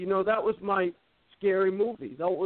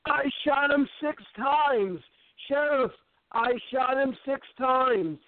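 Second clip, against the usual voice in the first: movie line quote; 4 semitones higher, slower than usual. Retold or imitated. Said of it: "Halloween two".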